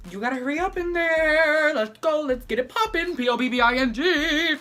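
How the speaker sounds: high, loud, far-off mom calling; bossy mom. Retold or imitated. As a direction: holler like a mom rushing the kids. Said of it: "his mom is like".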